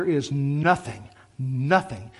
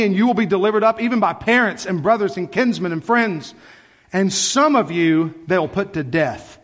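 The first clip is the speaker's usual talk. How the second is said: urgent, raised preaching delivery of scripture; forceful scripture quotation; 5 semitones higher, 4 dB louder than usual. Acted. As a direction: drive through the warning, then weigh the last words. Reads Jesus' warning in rising voice.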